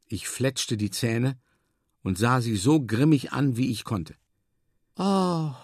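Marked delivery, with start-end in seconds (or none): 5.0-5.5 higher, surprised cry; sudden exclamation. A narrator's reading. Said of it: "rief sie plötzlich". (plötzlicher Ausruf)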